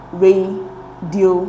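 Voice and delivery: slow, split into separate syllables; "radioactive" broken up with a pause between syllables. Shown as a demonstration. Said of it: "divide the words into syllable".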